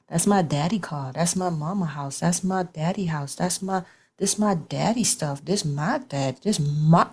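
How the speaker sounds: put-on a kid staking a claim, pressing on "my"; stress on my. Little kid claiming daddy's things, hitting "my". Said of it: "they put emphasis on the word my".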